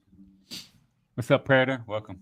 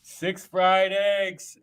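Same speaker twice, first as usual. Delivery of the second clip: very slow, drawn-out Arnold Schwarzenegger line; 2 semitones higher, 4 dB quieter, much slower than usual. Retold or imitated. Cohost reading the post, a slow mock Arnold. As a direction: stretch each word like a bad Arnold. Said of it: "I can't fucking do Arnold".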